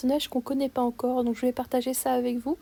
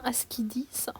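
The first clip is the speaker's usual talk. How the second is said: whispered aside; 8 dB quieter than usual. Real, not acted. Aside about not understanding.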